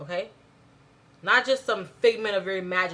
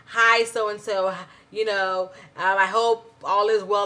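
slow, stiff, overly formal greeting; 6 dB louder than usual. Shown as a demonstration. Teacher mocking a stiff email to a best friend, slow and formal. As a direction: recite it like a cold form letter. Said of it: "you're not gonna be like".

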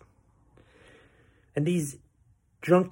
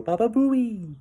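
high, mocking drunk-fan yell; mimicking a drunk spectator's shout, high and silly; golf heckler; 9 semitones higher, slower than usual. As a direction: squeal it out like an obnoxious fan in the gallery. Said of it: "I hear someone go".

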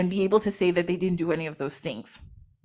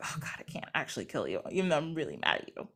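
low, soft, grudging give-in; reluctant compassion; 6 semitones lower, 11 dB quieter, faster than usual. Retold or imitated. Isis sparing Set despite her anger, reluctantly compassionate. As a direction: back down quietly, imitating a merciful goddess. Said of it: "being the goddess of compassion".

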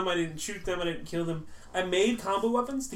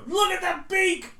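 silly high voice; 12 semitones higher, 4 dB louder, slower than usual. Acted.

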